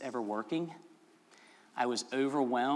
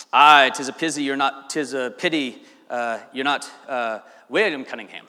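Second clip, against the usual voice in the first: light imitation of a Scottish groundskeeper, first line louder; a mild mock Scottish brogue, rolling the aye; Scottish accent; 8 dB louder than usual. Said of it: "This is a really good Scottish accent".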